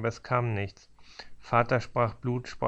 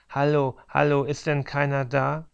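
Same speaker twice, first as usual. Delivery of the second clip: loud, high frantic calling; calling out desperately; 4 semitones higher, 5 dB louder than usual. Acted. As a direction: shout for help at the door. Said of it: "und rief". (verzweifeltes lautes Rufen)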